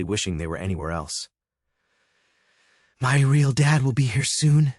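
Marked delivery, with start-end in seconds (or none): 3.0-4.7 louder, higher, spat with a bitter laugh; teenage son taunting his stepfather, bitter and loud. Acted. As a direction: sneer it through a bitter laugh. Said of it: "he said with a bitter laugh".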